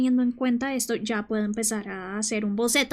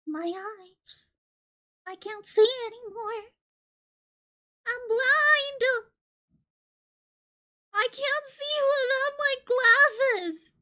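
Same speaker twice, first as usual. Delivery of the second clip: mock panic; 12 semitones higher, slower than usual. Melodramatic blindness over lost glasses.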